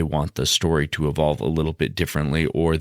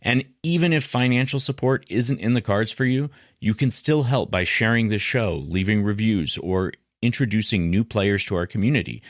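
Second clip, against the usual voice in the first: scripted podcast ad read; podcast promo read; 3 semitones higher than usual. Acted. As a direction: pitch the show's support options to listeners. Reads show support promo.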